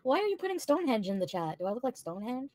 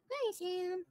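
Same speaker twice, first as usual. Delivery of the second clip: cooing hi; 8 semitones higher, 7 dB quieter than usual. Real, not acted. Cooing greeting.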